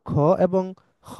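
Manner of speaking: first খ throaty Arabic, second খ plain Bengali; contrasting two kh sounds. Shown as a demonstration. Teacher contrasting Arabic and Bengali খ for students. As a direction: show the difference between the two খ. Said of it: "একই জিনিস না".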